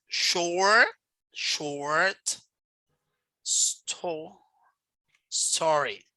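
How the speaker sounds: "short" repeated with rising tune, then "story" broken after "sto-"; teacher isolating the stressed STO in "story"; demonstrating word stress. Shown as a demonstration. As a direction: sound out "short", "sto-", "story" in separate pieces. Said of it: "Stress is especially the emphasis".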